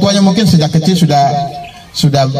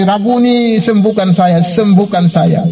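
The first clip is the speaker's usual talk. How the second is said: retold shouting; 5 semitones higher, slower than usual. Beggar shouting again for healing, mock pleading shout. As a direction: plead in a raised pitch, stretching the last cry. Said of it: "makin kencang dia berteriak lagi".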